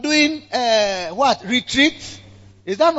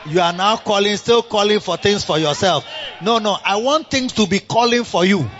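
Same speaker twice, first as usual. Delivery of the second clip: shouted rebuke; 2 semitones higher than usual. Real, not acted.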